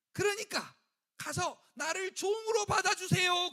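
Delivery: loud, high, begging cry; a son shouting his plea to come home; desperate plea. Acted. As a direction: cry out to be taken as a servant. Son rehearses begging to father.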